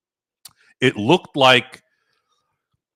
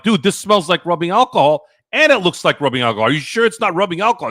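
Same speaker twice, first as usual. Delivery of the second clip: incredulous; 7 semitones higher, faster than usual. Retold or imitated. Doubting friend about moonshine bottle.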